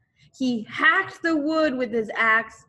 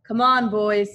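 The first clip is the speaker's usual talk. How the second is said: rallying call; 7 dB louder than usual. Acted. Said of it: "said Mose".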